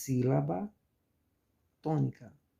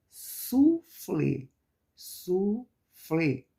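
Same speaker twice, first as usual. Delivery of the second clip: "suflê" slowly split, flê louder; stress on final syllable; 3 semitones higher, 5 dB louder, much slower than usual. Shown as a demonstration. Teacher giving a second oxítona example, stress on final syllable. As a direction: stretch "suflê" into su and a strong flê. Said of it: "qual a que pronunciamos mais forte".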